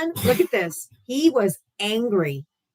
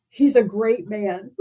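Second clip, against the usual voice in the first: slow, dopey parroting; lightly mock the fan's earnest praise; mocking commenter; 4 dB louder, slower than usual. Streamer quoting a chatter, lightly mocking and slow. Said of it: "this chud in the comment section going".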